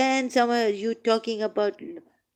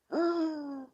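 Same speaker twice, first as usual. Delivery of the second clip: gasp; 10 semitones higher, 6 dB quieter than usual. Real, not acted. Shocked by the verse he read.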